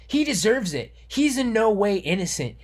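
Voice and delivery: lightly mock the smug normie saying "he deserves it"; scoffing at critics who say "he deserves it"; mocking normie quote. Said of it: "Normies who say that kind of thing".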